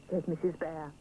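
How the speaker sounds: usual speaking voice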